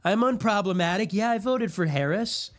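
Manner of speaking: mock simp voice. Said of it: "and you're like".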